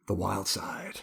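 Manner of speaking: hushed, whispered song hook; dramatic whisper. Pretend. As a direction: whisper it like a rap intro's teaser.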